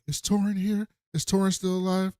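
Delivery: lightly acted urgent questions; anxious questioning. She asks Han after being saved, anxious questioning.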